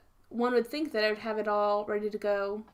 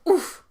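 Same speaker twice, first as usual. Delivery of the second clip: oof; 5 semitones higher, 6 dB louder than usual. Retold or imitated. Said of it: "everyone goes".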